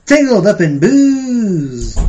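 slow, drawn-out folk-singer croon; folk singer impression. Friend joking on the podcast, in a slow singer's drawl. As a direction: sing it like a mumbling folk singer. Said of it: "in my Bob Dylan voice".

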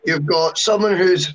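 slow, mock Dutch accent. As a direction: put on a playful Dutch accent. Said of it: "do you like my Dutch accent there?".

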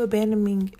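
"abandoning" with a muddled middle, like "abandoming"; stumbled word. Real, not acted. Mom podcaster failing at a word, "abandoning" fumbled. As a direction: slur the n of "abandoning" towards an m. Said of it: "can't even say that word for real".

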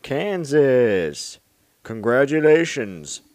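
loud, proud winner reveal; excited announcement. Acted. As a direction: boom out the winner's name.

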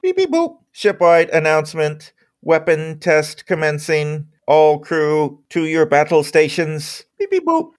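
alien voice. Acted. GM voices ship computer announcement.

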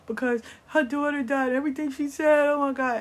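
high-pitched, wailing imitation of crying; mock crying. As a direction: imitate a distraught woman's tearful plea. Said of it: "she started crying like".

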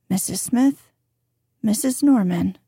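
"Smith" and "Norman" given equal weight; even inflection. Shown as a demonstration. Introducing two ladies with no distinction made, even inflection. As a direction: run "Missus Smith, Missus Norman" as one casual statement. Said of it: "The inflection is".

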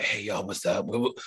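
imitating a raspy hungover voice. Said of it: "hungover voice is hilarious. I love to imitate it".

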